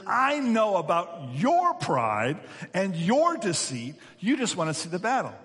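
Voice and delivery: mock indignant brother, leaning on each charge; angry older brother. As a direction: accuse him with acted anger. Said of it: "the anger in his brother's voice".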